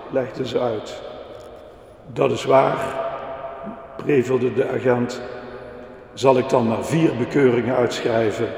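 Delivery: put-on lively storybook reading for the kids; reading to children. A narrator's reading. Preacher reading a children's story to the congregation, lively storytelling. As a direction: tell the little story to the children in the pews.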